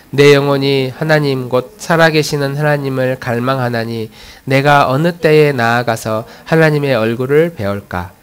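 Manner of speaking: steady, measured congregational reading; scripture reading. Real, not acted. Pastor leading the congregation in reading a psalm together, measured recitation. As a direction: read the psalm evenly, line by line.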